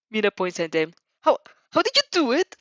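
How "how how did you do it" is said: amazed. Acted. Mina amazed by the wings.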